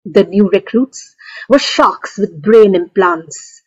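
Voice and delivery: measured poem recital with pauses between phrases; poetry reading. Acted. Poet reads own poem to festival audience, poetry reading. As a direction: recite line by line, letting images land.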